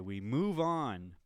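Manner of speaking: lightly imitated catchphrase, drawn out; MMA Guru. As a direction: stretch out the borrowed transition line slowly. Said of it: "as M M A Guru would say".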